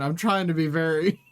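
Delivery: slow, laughing through the words; amused and careful. Real, not acted. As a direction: giggle while being careful.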